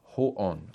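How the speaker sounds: "ho'on" as two joined parts, ho-on; pronunciation of "ho'on". Shown as a demonstration. Teacher repeats the word just shown, careful "ho'on". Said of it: "it's pronounced".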